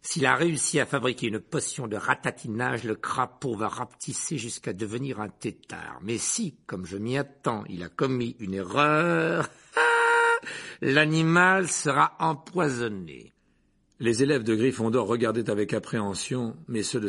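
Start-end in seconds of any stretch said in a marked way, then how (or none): 0.0-9.5 slow, relishing announcement; gleeful Snape. Acted. Rogue relishes the threat. 9.7-10.8 high, sharp evil cackle; cruel laugh. Acted. Rogue's cruel amusement. 10.8-13.3 slow, relishing announcement; gleeful Snape. Acted. Rogue relishes the threat.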